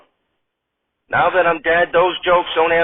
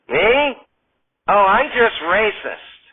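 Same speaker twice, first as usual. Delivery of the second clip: casual confession; 4 semitones higher, slower than usual. Acted. McDonald answers casually.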